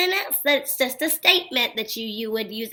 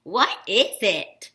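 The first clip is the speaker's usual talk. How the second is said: "What is it?" slow and lower, each word separate; question voice; 5 semitones lower, slower than usual. Shown as a demonstration. Teacher repeating "What is it?" as an asked question, questioning voice. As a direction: ask "What is it?" slowly and deliberately. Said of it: "'cause I'm asking a question".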